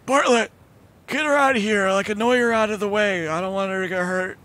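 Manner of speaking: high bossy calling; commanding a familiar. Acted. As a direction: order the bird to shoo her. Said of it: "And be like".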